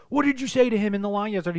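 high, loud accusing question; imitated scolding; mock screaming teacher. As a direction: grill the child like an angry teacher. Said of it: "screaming at him".

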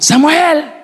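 high shouted call of a name; a mother yelling for her lost son. Retold or imitated. Mother searching the crowd, shouting her son's name high. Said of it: "Empezó a gritar".

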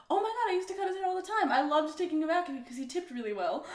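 high, fast gushing; gushing hairdresser. Retold or imitated. Rival stylist gushing to girlfriend, high and fast. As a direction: rattle it off, giddy. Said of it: "She's like".

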